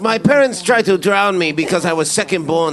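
lightly put-on Asian accent; mock Asian accent, broken English. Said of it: "you lost your Asian accent halfway through there".

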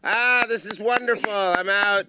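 black woman voice. Acted. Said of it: "Okay, I'm the black woman".

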